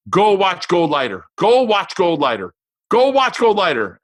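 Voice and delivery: high, insistent mock chant; excited daughter. Dad mimicking his daughter during the film, excited and insistent. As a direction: imitate a kid calling out a clue.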